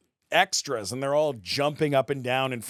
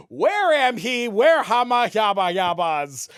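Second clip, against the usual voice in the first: garbled botched take, louder; flubbed line; 8 semitones higher, 6 dB louder than usual. Retold or imitated. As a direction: stumble through the line as gibberish. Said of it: "The first take".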